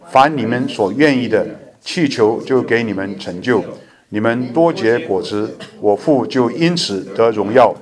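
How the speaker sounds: slow, measured, solemn Bible reading; slow scripture reading. Acted. Pastor reads John fifteen aloud to the church, slow and solemn. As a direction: read each phrase deliberately so the flock can follow.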